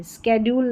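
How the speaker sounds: स्केड्यूल said sked-yool, rising; स्केड्यूल with hard sk, rising; स्केड्यूल demoed as the wrong sk form; wrong pronunciation. Shown as a demonstration. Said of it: "स्केड्यूल नहीं".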